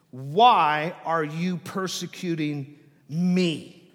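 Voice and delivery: slow question, "me" set apart and stressed; slow and loud, weight on "me". Acted. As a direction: lean hard on "me" at the end. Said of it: "the emphatic is, is with the me".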